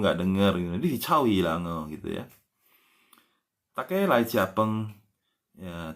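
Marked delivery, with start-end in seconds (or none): 3.8-4.9 slow demo. Shown as a demonstration. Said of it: "slow demo of phrase".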